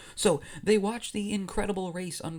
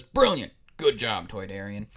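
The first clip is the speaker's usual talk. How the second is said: Jabba; 5 semitones lower, 5 dB louder than usual. Acted. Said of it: "And Jabba says".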